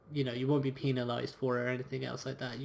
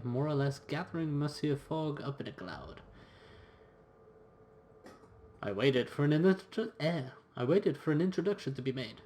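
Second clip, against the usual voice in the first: reading the game's story text aloud; story narration. A narrator's reading. Player reading the story to viewers, in a storyteller voice. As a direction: narrate the adventure like an audiobook.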